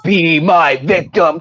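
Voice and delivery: slow, low horror villain voice; lightly voiced menacing killer; Candyman voice. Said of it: "More like Candyman".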